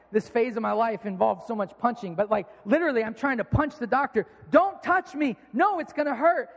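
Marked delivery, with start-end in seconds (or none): 4.5-6.5 high mock yell; acted-out cry of refusal; retold panicked protest. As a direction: fend off the doctor like a hurt kid. Acts out fighting off the doctor.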